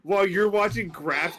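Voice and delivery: put-on slow, smug teenage jock; jock kid voice. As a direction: lecture dad like a gym-obsessed kid. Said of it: "manliest kid ever".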